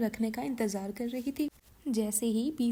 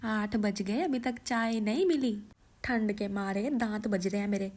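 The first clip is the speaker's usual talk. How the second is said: a lightly voiced cranky old mother-in-law calling out; a hint of a bossy mother-in-law; grumpy mother-in-law. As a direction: nag the daughter-in-law for her tea. Mother-in-law scolding daughter-in-law.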